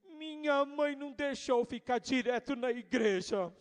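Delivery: lightly voiced pouting little girl; a hint of a sulking kid; sulky child. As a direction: whine it like a child with a pout. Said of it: "Ela disse".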